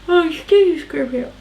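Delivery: words stretched by a real yawn; apologizing through a yawn. Real, not acted. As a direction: excuse yourself mid-yawn. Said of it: "Why am I yawning?".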